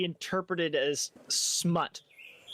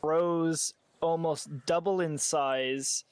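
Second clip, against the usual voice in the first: game master narration; 2 semitones higher than usual. A narrator's reading. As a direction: spin out the reveal phrase by phrase. Game master describes a transformation.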